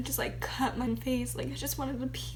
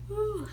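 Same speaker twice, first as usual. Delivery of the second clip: emotional sigh; 8 semitones higher, 3 dB louder than usual. Real, not acted. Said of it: "I'm so emotional".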